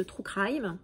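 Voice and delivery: "true crime" in a light, self-mocking English accent. Shown as a demonstration. Naming the publisher's collection, light mock English accent. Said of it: "deux fois et magnifique accent".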